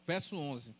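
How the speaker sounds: normal talking voice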